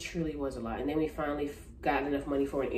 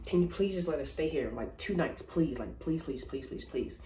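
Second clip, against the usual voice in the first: retold pleading. Retold begging of hotel clerk.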